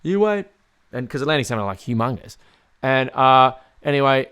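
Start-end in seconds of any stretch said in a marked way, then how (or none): 0.0-0.5 lightly voiced old Hungarian man, higher pitch; a hint of excited grandpa, pitched up; old Hungarian pop. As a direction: mildly imitate grandpa's confident prediction. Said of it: "he used to say it every now and then".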